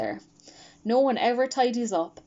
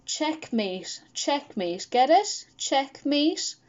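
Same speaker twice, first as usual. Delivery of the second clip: Morris joking; 5 semitones higher, much slower than usual. A narrator's reading. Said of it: "He's doing it now".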